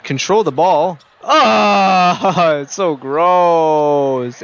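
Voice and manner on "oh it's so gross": slow, drawn-out laughing delight. Real, not acted. Streamer relishing a filthy and-one, laughing. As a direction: savor it through a laugh.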